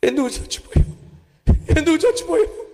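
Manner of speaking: high, hammed-up graveside wail; mock wailing. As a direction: wail it like a mourner beating his chest. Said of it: "సమాధి మీద పడి ఏడుస్తున్నాడు". (ఎత్తైన స్వరంలో నాటకీయ ఏడుపు)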